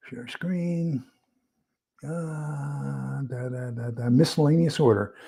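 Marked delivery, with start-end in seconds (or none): 0.1-4.1 unvoiced whisper, much softer. Real, not acted. Still fumbling with the screen share, a whispered aside. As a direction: breathe it to yourself. Muttering while setting up screen.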